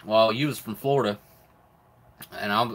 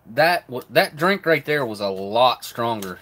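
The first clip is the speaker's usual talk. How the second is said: louder, slow startled exclaim; surprised; 5 dB louder than usual. Real, not acted. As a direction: caught off guard by the drink. Reacting to a strong drink.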